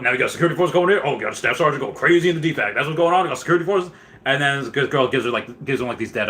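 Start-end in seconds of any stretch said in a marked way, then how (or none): 0.0-3.9 playing the wild sergeant mocking security; staff sergeant rant. Sergeant ranting at security forces, incredulous.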